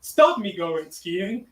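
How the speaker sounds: lightly voiced ghost, slow and pleading; a singer's ghost. The singer's ghost pleading with his former partner, also a singer. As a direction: plead gently from beyond. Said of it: "the ghost of your husband, Sonny Bono".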